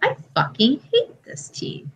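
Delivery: mock whisper of a bitter fan; whispered fan gripe. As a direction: mutter it like a disgusted fan. Fans quoted hating heel team.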